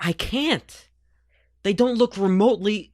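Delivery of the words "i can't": breathy whispered denial. Pretend. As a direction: whisper it back. Whispered reply.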